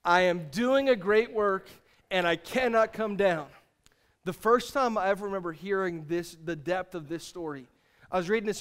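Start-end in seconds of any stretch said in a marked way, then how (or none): 0.0-3.5 slow, firm declaration; firm, deliberate conviction. Shown as a demonstration. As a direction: say it like you mean it, each word weighted. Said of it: "Now say it with conviction this time".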